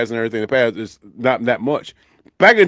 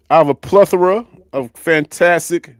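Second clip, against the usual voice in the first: mock-grand praise, higher pitched; sarcastic; 4 semitones higher, 3 dB louder than usual. Real, not acted. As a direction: lay on the fake enthusiasm. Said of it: "and I'm being sarca-, sarcastic".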